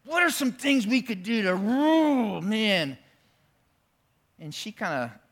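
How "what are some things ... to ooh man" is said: higher, eager asking; eager pastors. Retold or imitated. Pastors eagerly asking the manager. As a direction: ask with mock excitement. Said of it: "they're like".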